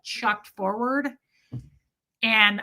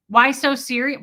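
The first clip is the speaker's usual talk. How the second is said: put-on higher, louder Brooklyn accent; 4 semitones higher, 7 dB louder than usual. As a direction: throw it back in a mock Brooklyn accent. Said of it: "I switched it up to a Brooklyn accent".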